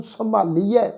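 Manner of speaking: ਸੰਭਾਲੀਐ with the m weighted heavily, səmaliɛ; ਸੰਭਾਲੀਐ, heavy ਮ and an ai ending; heavy m sound. Shown as a demonstration. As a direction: lean on the ਮ in ਸੰਭਾਲੀਐ, giving it a heavy tone. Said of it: "ਮੰਮੇ ਅੱਖਰ ਨੂੰ ਥੋੜ੍ਹਾ ਭਾਰਾ ਕਰਕੇ ਉਚਾਰਨ".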